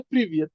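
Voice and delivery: "প্রিভিয়াস" said low and falling as a Russian greeting; Russian greeting demo. Shown as a demonstration. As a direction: model "প্রিভিয়াস" clearly, dropping at the end. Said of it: "এরা সবসময় বলে".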